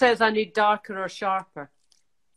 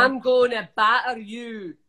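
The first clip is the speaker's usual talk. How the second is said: 1 Scottish accent. Shown as a demonstration. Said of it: "give me a Scottish thing to say".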